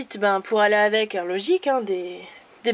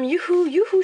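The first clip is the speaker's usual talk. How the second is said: mock cheer; 7 semitones higher than usual. Ironic cheer over chewing gum.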